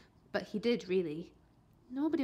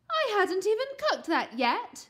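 high, loud indignant exclaim; a mother's surprised outburst; 10 semitones higher, 6 dB louder than usual. A narrator's reading. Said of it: "she exclaimed".

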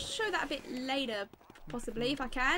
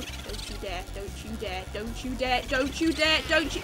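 building warning; 6 semitones lower than usual. Pretend. Warning the ghost repeatedly.

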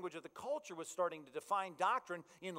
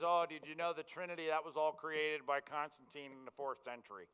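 lightly voiced drunk man; a hint of a drunk caller in a bad accent. Drunk man at your door challenging the Trinity, mock drunk voice. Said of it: "That was the drunk man".

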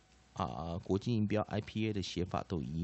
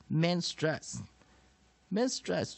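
slow term demonstration; 8 semitones higher, much slower than usual. Shown as a demonstration. Teacher models the English term.

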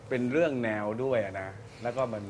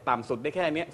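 low range demo; 3 semitones higher than usual. Shown as a demonstration. Judge demonstrating a normal singer's lowest range, sung low. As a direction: dip into the bottom of the range on ต่ำสุดได้แค่เนี้ย.

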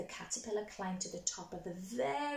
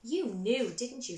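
mild excited; 6 dB louder than usual. Acted. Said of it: "said the butterfly excitedly".

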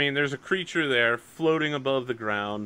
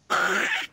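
imitated ripping noise. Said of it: "and there's, like, a".

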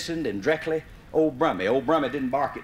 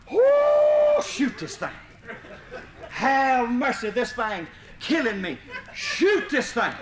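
high desperate begging yells, half laughing; hollering for help; 7 semitones higher, slower than usual. Retold or imitated. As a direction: plead in panic from the treetop. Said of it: "he kept hollering".

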